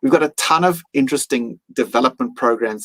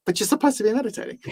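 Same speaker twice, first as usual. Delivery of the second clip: mock exasperated inner voice; 11 semitones higher, 4 dB quieter, faster than usual. Retold inner voice, scolding himself.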